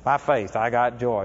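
a hint of crying on "I got joy"; quiet tearful reply. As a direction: mumble it through tears, unconvinced. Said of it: "And she's still crying".

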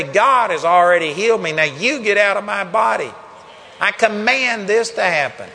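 loud, forceful command to the mountain; commanding declaration. Shown as a demonstration. Preacher shows how to speak to a mountain, loud commanding voice. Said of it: "And you speak like that".

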